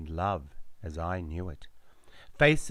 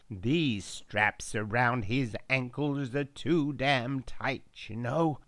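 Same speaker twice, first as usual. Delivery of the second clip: put-on American accent; 3 semitones higher than usual. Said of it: "a strong American accent".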